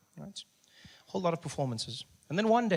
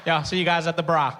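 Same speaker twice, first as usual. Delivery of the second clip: hammed-up hushed office talk with laughter; office chatter; 3 semitones higher, 5 dB louder than usual. Mocking office workers' secret chats, lightly voiced. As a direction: huddle and whisper like office colleagues. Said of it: "like white people in the office".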